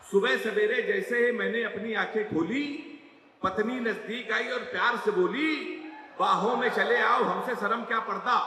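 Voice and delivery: recited verse, first take; poem recital. Acted. Poet reciting his couplet to the audience, recital. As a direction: recite the four lines to the crowd. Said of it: "चार line आपको सुना रहा हूं".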